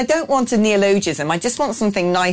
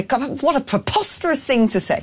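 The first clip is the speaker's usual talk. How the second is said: higher, faster mock indignant scoff; mock outrage; 8 semitones higher than usual. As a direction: scoff like a scandalised pundit. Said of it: "I just want to sort of say".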